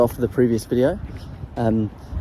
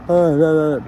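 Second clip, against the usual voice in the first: yawning voice; 5 semitones higher, 5 dB louder than usual. Shown as a demonstration. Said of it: "People say yawning".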